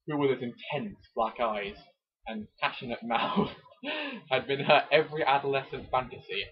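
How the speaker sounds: hammed-up dramatic reading of a romance novel; romance novel narration. Reading a Mills and Boon chapter to his co-host, mock dramatic. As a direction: read it like a breathless bodice-ripper.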